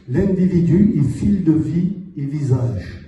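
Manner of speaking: measured, lightly chanting verse delivery; poem recitation. Acted. Poet giving the French version of their poem, measured recitation. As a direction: link each phrase to the next, reciting.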